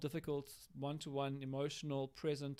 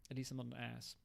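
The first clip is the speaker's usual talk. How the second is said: put-on childish retort; 3 semitones lower, 8 dB quieter than usual. Shown as a demonstration. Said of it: "the child response is".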